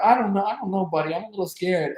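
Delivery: high, mock-nervous protest; parody of a singer. Nervous singer to his buddy on the plane, mock scared. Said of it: "Richie Valens like".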